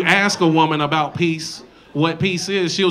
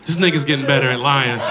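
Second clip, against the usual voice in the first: much lower, fast knowing mutter; suspicious girlfriend; 6 semitones lower, faster than usual. Retold or imitated. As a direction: drop the voice, she's sure he's lying. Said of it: "you go".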